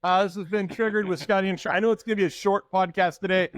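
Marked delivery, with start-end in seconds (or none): 0.0-1.7 higher-pitched pretend outro; mock sign-off. Co-host fleeing a bad joke, mock sign-off. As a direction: fake wrapping up the show in protest.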